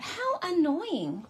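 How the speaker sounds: slow, amused groan through a laugh. Real, not acted. Crafter laughing at losing her card piece, slow amused.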